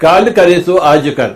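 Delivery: slow, measured Hindi couplet recitation; धीमे स्वर में दोहा पाठ; reciting a verse. Shown as a demonstration. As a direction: recite it slowly like a sacred verse. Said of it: "ఒకటే ఒక శ్లోకం వచ్చు నాకు".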